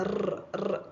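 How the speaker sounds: റ് said as a hard, stressed r. Shown as a demonstration. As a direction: roll the റ് hard, the way English does not. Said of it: "നമ്മളിങ്ങനെ stress ചെയ്ത് പറയത്തില്ല". (ഊന്നിയ റ് ശബ്ദം)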